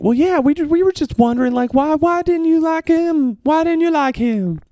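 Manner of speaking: high, airy, lilting radio host voice; sweet, sing-song, over-gentle interviewer; lofty radio host. Retold or imitated. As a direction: float it up like a dreamy radio host. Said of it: "That's not how people on the radio sound".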